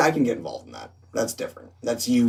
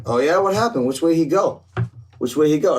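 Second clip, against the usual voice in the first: loud, higher-pitched demand; imitating an agitated man, raised voice; acted confrontation; 6 semitones higher, 5 dB louder than usual. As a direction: play a riled-up guy hunting someone. Acts angry man seeking the other.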